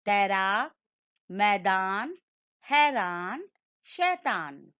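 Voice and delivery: each ऐ word said slowly and distinctly, पैर, बैर, तैर with a clear open ऐ; clear drill pronunciation. Shown as a demonstration. Teacher leads students in repeating ऐ-matra words, crisp and clear. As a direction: spell out every word cleanly so the class can echo it. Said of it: "मेरे संग उच्चारण करिए".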